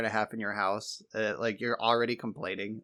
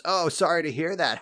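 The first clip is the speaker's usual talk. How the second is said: higher, louder mock taunt; mock teasing jab; 7 semitones higher, 5 dB louder than usual. A gamer taunting his rival about Massachusetts, hammed-up jeer. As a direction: tease him about his home state. Mock turf argument banter.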